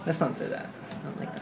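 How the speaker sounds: hushed, breathy whisper. Real, not acted. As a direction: whisper it as if to hide. Quiet protest about a rude remark.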